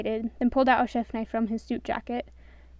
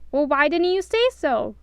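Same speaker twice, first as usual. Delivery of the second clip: cheerful; 4 semitones higher, 6 dB louder than usual. A narrator's reading. Doc cheerfully welcoming.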